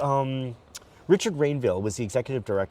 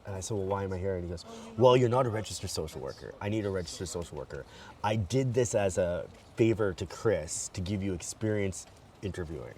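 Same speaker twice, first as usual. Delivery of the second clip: put-on a light, rough Irish accent; a hint of an Irish boss letting him down; Irish accent impression; 4 semitones lower, 5 dB quieter than usual. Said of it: "I'm gonna do my best Adrian impression".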